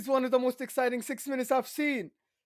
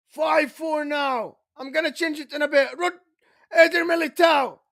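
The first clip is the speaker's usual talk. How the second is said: live play-by-play; 3 semitones higher, 4 dB louder than usual. Real, not acted. Commentator calls the late equalizer to viewers, live play-by-play. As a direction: call the action with rising urgency.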